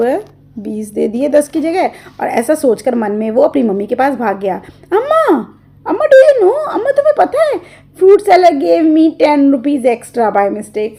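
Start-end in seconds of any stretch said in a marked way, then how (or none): 4.9-11.0 mischievous giggle. Acted. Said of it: "Hiding a mischievous smile".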